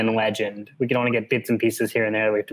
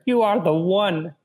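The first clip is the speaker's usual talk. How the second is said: 1 muttering Mapes; 6 semitones higher, slower than usual. A narrator's reading. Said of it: "she muttered".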